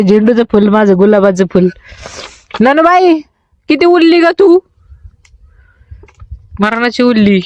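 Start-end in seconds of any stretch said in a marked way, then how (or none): 2.6-4.6 high playful coo; mother teasing her tiny daughter in a high coo. Real, not acted. Cooing to baby.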